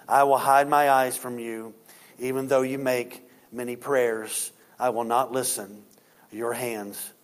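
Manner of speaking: low, measured reading of scripture. Acted. Preacher reads Isaiah's rebuke to Israel, solemn scripture reading.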